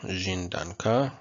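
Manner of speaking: danka with the stress on the final "ka"; final-syllable stress. Shown as a demonstration. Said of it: "stress is on the final syllable".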